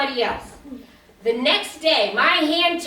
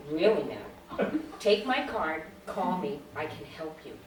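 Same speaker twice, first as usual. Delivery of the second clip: lightly voiced, low, soothing psychiatrist; calm therapist; 7 semitones lower, 6 dB quieter than usual. Psychiatrist offering his card to a supposed patient, mildly soothing. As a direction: lower and soften it, trailing quieter as you offer help.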